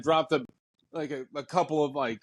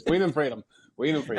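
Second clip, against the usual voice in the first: stoner Rain Man; faster than usual. Pretend. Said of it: "you sound like a stoner Rain Man".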